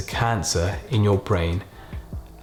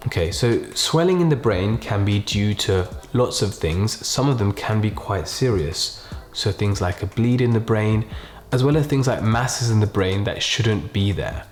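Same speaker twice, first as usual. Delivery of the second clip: slow, gentle, quiet delivery with pauses; doctor bad news. Shown as a demonstration. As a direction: break bad news softly and slowly. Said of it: "the main aim here is to be really slow, kind of really use a quiet tone".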